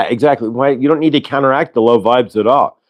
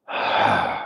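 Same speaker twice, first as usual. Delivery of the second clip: breathy sigh out; 8 dB quieter than usual. Shown as a demonstration. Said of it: "box breathing".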